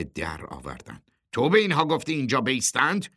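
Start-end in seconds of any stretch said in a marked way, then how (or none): 1.3-3.1 quick, raised-pitch demand; challenging question. A narrator's reading. Truck boss confronts the committee chairman, demanding.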